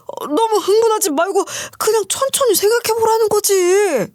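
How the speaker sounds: calm her down while squirming; a nervous ex-husband trying to placate; flustered ex-husband. Acted.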